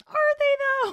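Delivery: very high, loud mock questioning; hammed-up high-pitched doubt. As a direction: squeal it as a teasing question. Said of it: "that's us just going".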